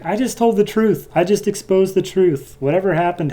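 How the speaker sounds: smug, sing-song retold villain; haughty Strife. Strife defending herself, mocking.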